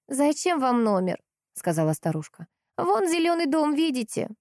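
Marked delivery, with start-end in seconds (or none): 0.1-1.2 put-on old woman's voice. A narrator's reading. Старушка отвечает полковнику. 2.8-4.3 put-on old woman's voice. A narrator's reading. Старушка показывает дом.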